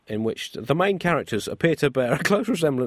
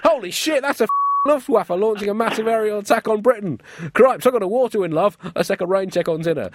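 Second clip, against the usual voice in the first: high, loud panicked Churchill; alarmed shout; 9 semitones higher, 5 dB louder than usual. Acted. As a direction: yell it in sudden alarm at the window. Churchill sees air attack.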